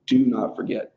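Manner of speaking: "Do not forget" said with firm, separate stresses; emphatic. Shown as a demonstration. Teacher showing reinforcing language, "Do not forget" said emphatically. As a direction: drive home each word of "Do not forget".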